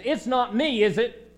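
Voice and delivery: mildly indignant denial; confident, almost angry. Acted. Peter answering Jesus at supper, mildly indignant. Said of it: "Peter confidently, almost angrily says".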